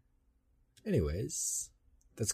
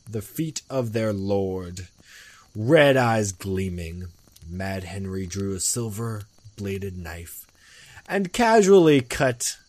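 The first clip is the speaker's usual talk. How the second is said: story narration. A narrator's reading. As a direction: tell a ghost story with big openings, falling away.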